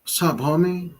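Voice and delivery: half-hearted homie greeting; unconvincing cholo. Shown as a demonstration. Man showing he couldn't act the part, unconvincing cholo. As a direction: try a cholo voice and barely manage it. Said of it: "I couldn't even do it if I was acting".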